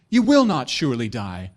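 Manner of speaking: lightly voiced, portentous warlock. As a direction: draw it out like a dark pronouncement. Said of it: "he didn't talk like that".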